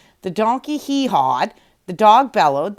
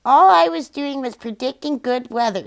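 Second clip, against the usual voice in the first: higher, louder rooster defending himself; rooster's voice; 5 semitones higher, 4 dB louder than usual. A narrator's reading. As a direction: play the proud rooster. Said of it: "said the rooster".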